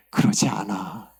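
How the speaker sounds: low, slow answer as God; hushed-down, firm divine correction; God's correction. Retold or imitated. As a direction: drop the pitch and draw out the denial. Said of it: "하나님께서 하셨던 말씀은".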